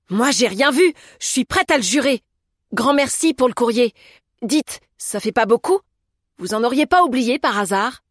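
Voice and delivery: cheeky, undaunted woman talking back; unfazed Augusta. A narrator's reading. Narrator voices Augusta.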